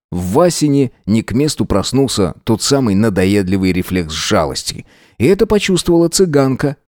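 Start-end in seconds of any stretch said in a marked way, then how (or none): none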